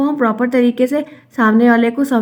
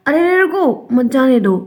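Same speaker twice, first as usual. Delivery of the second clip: urgent calling out; 3 semitones higher than usual. Acted. Acts out stopping someone leaving. (रोकने की हड़बड़ी का अभिनय)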